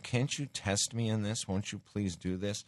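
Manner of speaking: a frustrated God pleading with his people; pleading frustration. Retold or imitated. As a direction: plead with them, a little exasperated. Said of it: "he's expressing frustration".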